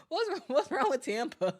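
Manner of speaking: laughing through a mock-offended question. Real, not acted. Jokingly reacts to viewer dissing Tampa.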